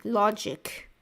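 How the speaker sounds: a hint of a British computer voice; sci-fi AI. Imitating a sci-fi AI from the game, lightly voiced British AI. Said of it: "like a sci-fi A I".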